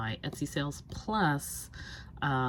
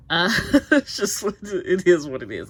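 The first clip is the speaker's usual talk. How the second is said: laughing; 3 semitones higher, 13 dB louder than usual. Real, not acted. Laughing resignation over undone tasks.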